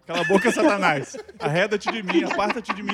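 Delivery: loud, playful rebuke of Satan; mock-stern and forceful command; mock exorcism rebuke. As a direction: cast out the devil, hammed-up. Hammed gospel rebuke of Satan.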